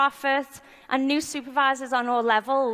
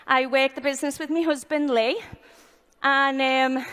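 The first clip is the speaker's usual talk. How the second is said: breathless, rushing through the words; out of breath. Real, not acted. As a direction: talk while catching your breath. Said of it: "oh my God, I'm out of breath".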